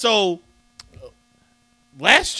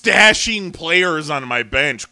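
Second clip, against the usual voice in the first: sarcastic, slower, with air quotes; 4 dB louder, slower than usual. Shown as a demonstration. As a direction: say it like it's in finger quotes. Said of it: "quote unquote".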